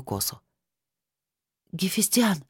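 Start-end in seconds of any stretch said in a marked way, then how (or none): 1.7-2.4 breathed out. Acted. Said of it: "выдохнула я".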